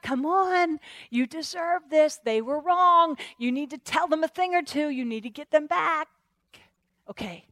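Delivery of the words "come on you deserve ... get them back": high-pitched nagging urge; insistent enemy voice, easing off; goading tempter. Acted. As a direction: keep pushing them toward revenge. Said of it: "The enemy's whispering".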